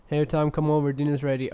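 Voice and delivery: calling out to Tom for dinner; yelling across the room. Retold or imitated. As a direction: mom calling from another room. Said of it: "how my mom sounds".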